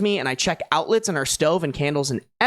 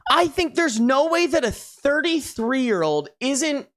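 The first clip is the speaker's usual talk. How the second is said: indignant; 6 semitones higher, slower than usual. Real, not acted. Indignant at the husband.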